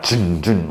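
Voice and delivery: vocal thuds of a cane coming down; "chun, chun" as a cane hitting the floor; imitated cane stomps. Retelling him stomping his cane behind her, imitated thuds. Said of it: "stomps his cane down".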